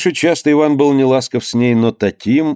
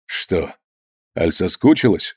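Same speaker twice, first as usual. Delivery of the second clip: усмешка; 4 semitones lower, slower than usual. A narrator's reading. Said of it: "усмехнулся Иван".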